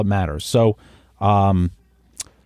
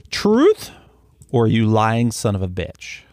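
hammed-up interrogator; mock accusation. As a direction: bark out the challenge like a game host. Playful lie-detector challenge.

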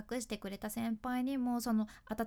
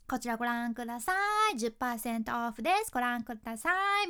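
sing-song shop call; faster than usual. Retold or imitated. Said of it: "原型とどめてない".

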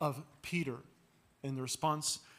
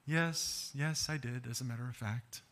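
put-on child's yes; 5 semitones lower, 6 dB quieter than usual. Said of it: "leading the child to say".

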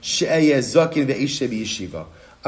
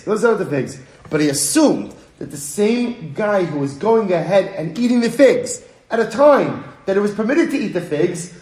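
loud, raised voice arguing for the Gemara; Gemara's loud protest; 6 semitones higher, 5 dB louder than usual. Acted. Teacher voicing the Gemara's rebuttal, loud and insistent. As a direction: push back hard, like correcting a listener. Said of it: "So Gemara says".

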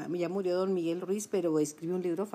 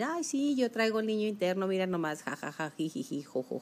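mocking scoffers. Imitating people who scoff at the inner child, mocking laughter. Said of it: "mucha gente se ríe de decir".

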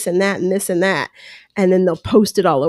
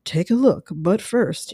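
lightly imitated TV host announcement; a rough go at a measured presenter's delivery; hint of a show host teasing what's next; Julie Chen; 3 semitones lower, 5 dB quieter than usual. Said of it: "not really good Julie Chen".

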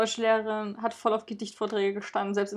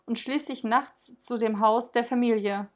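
calm, even storytelling read; story narration. A narrator's reading. Podcast host reading a Saint Nicholas legend, narration. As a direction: read the legend to listeners, gently paced. Reads Nikolaus story aloud.

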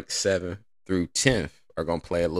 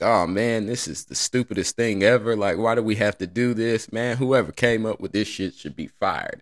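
mock angry LeBron; 4 semitones higher than usual. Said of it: "he's all like".

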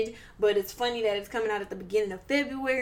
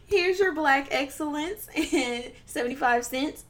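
laughing cashier; 4 semitones higher, slower than usual. Pretend. Mock cashier handing out change.

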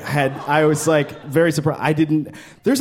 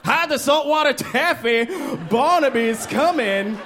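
high, frantic warning; mock panicked kid; 9 semitones higher than usual. Kids warning each other Barnaby approaches, high mock panic. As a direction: alarm the neighborhood, voice pitched up.

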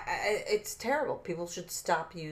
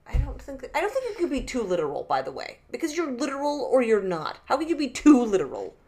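raised, higher and louder indignant argument; offended rant; 4 semitones higher, 5 dB louder than usual. Real, not acted. Defending his point to his friend, indignant and loud. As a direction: push back hard on "too literal". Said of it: "You got so offended".

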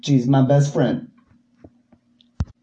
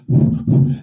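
breathy ear blowing. Pretend. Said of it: "blowing in your ear".

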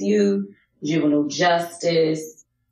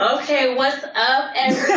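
higher, brighter flirty greeting; playful medium-sexy hello; 9 semitones higher than usual. Pretend. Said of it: "Put on your medium sexy voice".

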